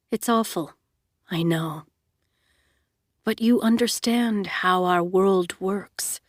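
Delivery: coldly reassuring; calm. Acted. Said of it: "still disgustingly calm".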